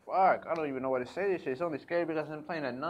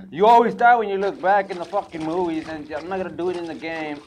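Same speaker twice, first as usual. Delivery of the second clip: panicked; 6 semitones higher, 13 dB louder than usual. Real, not acted. Fleeing, still in panic.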